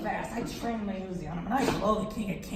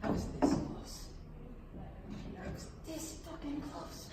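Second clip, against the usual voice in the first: hushed regret; 5 semitones higher, 8 dB quieter than usual. Retold or imitated. Comic rueing his near win.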